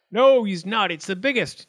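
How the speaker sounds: high, loud contradiction; squabbling acorn. A narrator's reading. Biggest acorn contradicts its rival, high and loud. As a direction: jump in loudly to object.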